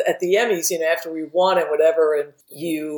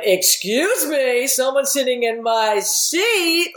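slow, higher, playfully huffy complaint; mock indignation; 5 semitones higher, slower than usual. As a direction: act put out as a joke. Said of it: "like, just being an asshole".

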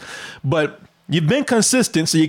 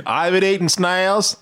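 put-on Australian accent. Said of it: "that Australian hide in the".

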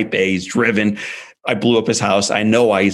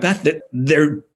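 put-on husband defending the boys to his wife, raised pitch; earnest pleading; 5 semitones higher than usual. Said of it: "And, and I'm like".

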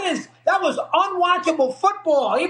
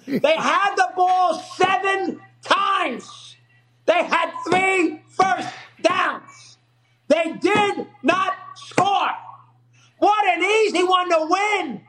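exasperated shouting; 3 semitones higher, slower than usual. Real, not acted. Ranting about Iowa's missed field goal.

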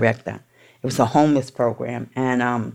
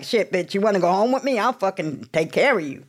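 imitating therapist; 6 semitones higher than usual. Therapist's offer voiced.

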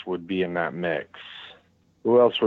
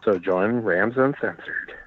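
promo announcer; slower than usual. Pretend. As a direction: sell the show slowly. Slow promo tagline.

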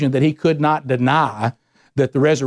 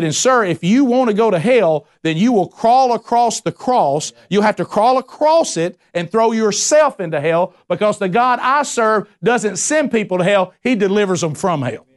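impassioned retort; 5 semitones higher than usual. Retold or imitated. Preacher retelling confronting atheist.

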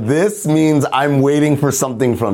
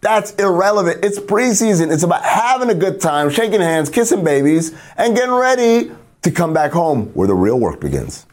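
schmoozy Hollywood agent; 2 semitones higher than usual. Acted. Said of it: "my old Hollywood character".

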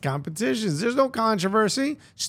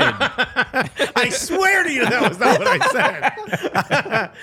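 laughing; 5 semitones higher, much slower than usual. Real, not acted. Joking denial of misquote.

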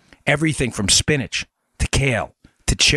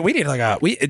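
usual speaking voice

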